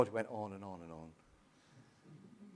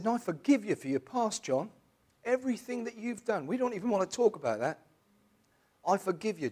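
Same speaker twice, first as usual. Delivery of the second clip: choked with emotion; 9 semitones higher, 5 dB louder than usual. Real, not acted.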